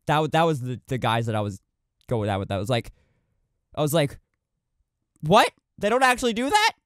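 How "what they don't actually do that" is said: high, curious disbelief; intended tone, honestly puzzled question; genuine surprise. Shown as a demonstration. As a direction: ask it as if you truly didn't know. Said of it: "that was more the tone that I, w-, I meant to take".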